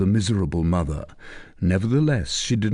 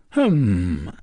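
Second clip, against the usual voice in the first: growl. Acted. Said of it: "growled Tristan".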